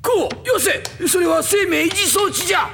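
warning shout. Acted. Old man stops Kou.

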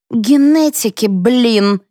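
high-pitched venomous jab; hissed anger. A narrator's reading. Mother scorning her in-laws' guess, hissed anger. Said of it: "прошипела Флора".

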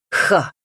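short scornful ha; mocking ha. Даня насмешливо хмыкает в ответ сестре. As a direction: scoff at her. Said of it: "насмехался он".

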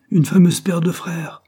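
high, loud and slow outburst; Henry lashing out at the brothers, loud and slow; bitter cry. A narrator's reading. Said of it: "Cria Henry".

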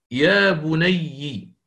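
يا بني بكسر الياء مطولة ببطء شديد; مدّ يا بني ببطء لإظهار الياء. Shown as a demonstration. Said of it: "كلما ورد بالإفراد". (يا بني بكسر ياء الإضافة ببطء)

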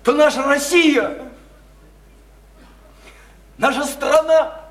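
slow, swelling proclamation; impassioned, weighty declaration; grand oratory. Acted. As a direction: proclaim it to the nation. Climax of speech on Russia.

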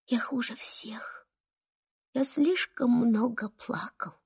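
whispered, slow and small; self-blaming whisper. Acted. Boy telling mum he is the worst, whispering. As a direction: hardly dare say it aloud. Boy blames himself, tiny voice.

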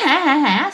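mock "ha, ha, ha" of the drinking friends; spelled-out retold laugh; imitated laughter. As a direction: mimic men laughing along. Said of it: "mấy ông này bên đây cười".

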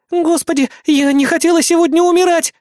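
high, loud tearful wail; crying out. Acted. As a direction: wail it like she's about to cry. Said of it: "заплакала Эрис". (высокий громкий плачущий вопль)

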